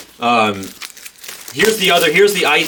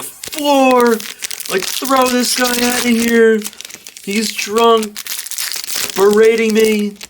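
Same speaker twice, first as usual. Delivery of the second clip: high, outraged mock call for the floor, much higher; indignant demand; 9 semitones higher, much slower than usual. She calls the floor on a heckler, high mock outrage. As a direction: demand the floor throw him out.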